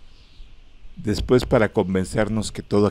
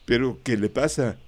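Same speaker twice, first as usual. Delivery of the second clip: anxious question; 5 semitones higher than usual. Acted. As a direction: ask in alarm, climbing higher. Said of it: "pregunté lívido".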